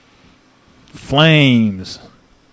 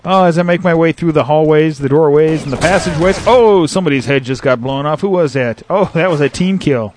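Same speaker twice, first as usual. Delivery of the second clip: light play-by-play. Acted. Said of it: "play and shoutcast at the same time".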